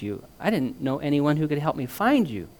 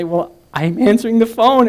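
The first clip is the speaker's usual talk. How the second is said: gentle kidding; 10 semitones higher, 12 dB louder than usual. A narrator's reading. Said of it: "I kidded her gently".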